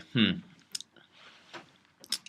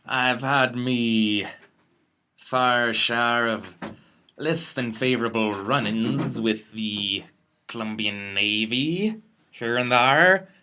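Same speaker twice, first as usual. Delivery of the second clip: in-character confession; slower than usual. Acted. Player speaks in character, deliberately.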